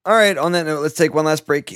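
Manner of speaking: loud host announcement; announcer voice. Real, not acted. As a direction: announce the break with energy.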